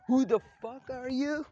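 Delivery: high, slow, drawn-out taunt; contemptuous challenge. Acted. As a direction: stretch it out in mock disbelief. Naruto acted out taunting attackers.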